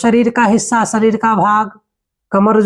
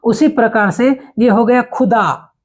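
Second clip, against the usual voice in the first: ordinary talk, nothing marked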